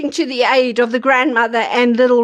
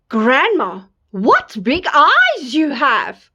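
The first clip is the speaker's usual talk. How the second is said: put-on slow little girl; slower than usual. Girl wonders at granny.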